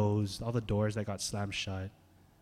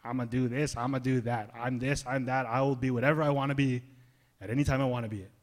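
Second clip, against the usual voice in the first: mild mock swagger; breezily boastful, lightly voiced; a hint of a cocky boaster; arrogant boast. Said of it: "You boast arrogantly saying".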